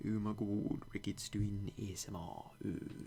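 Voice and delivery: a mock-excited gasp from the crowd; lightly voiced viewers crowing about the ASMR. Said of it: "people from saying".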